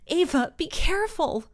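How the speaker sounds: high, called warning; yelled. A narrator's reading. Mom to Ava, high worried yell. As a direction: warn your daughter from afar. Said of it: "yelled Ava's mom".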